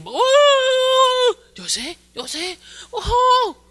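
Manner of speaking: high, loud alarmed calls to a son; calling out. Retold or imitated. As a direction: wake the boy up urgently. Father waking screaming son. (ayah memanggil anaknya dengan keras dan panik)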